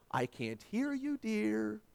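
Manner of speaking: soft, slow mother's whisper. Retold or imitated. Mother at bedroom door to praying boy, soft slow whisper. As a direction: ease it out softly to the child. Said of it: "she whispered".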